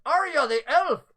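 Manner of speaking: lightly voiced innkeeper recalling; NPC voice. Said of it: "he goes".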